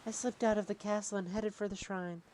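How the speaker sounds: soft princess voice. Acted. Voicing princess softly.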